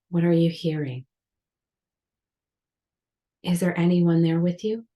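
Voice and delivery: measured meditation guidance with long pauses; unhurried yoga nidra guidance, leaving space between phrases; guided meditation. Real, not acted. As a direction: guide the listener gently into rest, phrase by phrase. Leads a guided relaxation.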